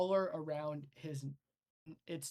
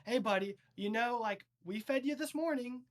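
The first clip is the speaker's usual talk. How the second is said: nervous coaxing; 6 semitones higher, 5 dB louder than usual. Acted. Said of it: "in unison".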